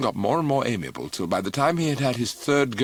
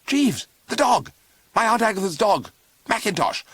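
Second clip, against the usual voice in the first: much higher, loud frantic calls; yelling for Jeeves; 11 semitones higher, 5 dB louder than usual. A narrator's reading. Bertie bursting into the flat, yelling at Jeeves in panic. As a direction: bellow it in a panic across the flat. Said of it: "yelled for Jeeves".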